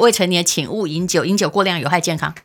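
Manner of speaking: rattled-off warning read at speed; fast legal disclaimer. Shown as a demonstration. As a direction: recite the disclaimer quickly by rote. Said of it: "你们要念得像我这么快不容易".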